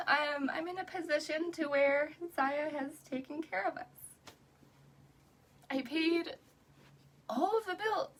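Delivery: real tears, pushing the words out high; crying. Real, not acted. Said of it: "maybe I'm crying because".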